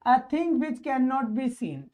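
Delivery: very slow, word by word reading; deliberate teacher dictation pace. Shown as a demonstration. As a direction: spell the question out slowly for the class. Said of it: "reads question".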